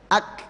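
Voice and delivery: "ak" cut off with the tongue pressed firmly; firm stopped K. Shown as a demonstration. Teacher showing where the k sticks first, firm stop. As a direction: hold the k of "ak" shut, no release. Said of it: "jadi bacanya pas begitu".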